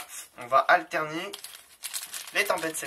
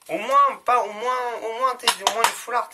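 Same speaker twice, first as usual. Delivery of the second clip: excited; 7 semitones higher, 6 dB louder than usual. Real, not acted. Hoping for a full art.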